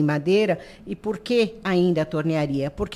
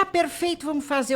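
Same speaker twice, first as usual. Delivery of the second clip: mock enthusiasm; 7 semitones higher than usual. Quotes consultant's eager approval.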